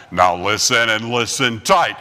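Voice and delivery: low slow cowboy warning; John Wayne. Retold or imitated. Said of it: "John Wayne doing that stuff".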